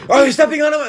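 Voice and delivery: high mock scolding voice; imitating mom. Son mimicking mom's complaint, high scolding voice. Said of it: "You're like".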